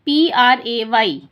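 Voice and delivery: spelled letter by letter, slowly; slow spelling out. Shown as a demonstration. Teacher spelling slowly for children. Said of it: "same यहाँ पे भी देखिए".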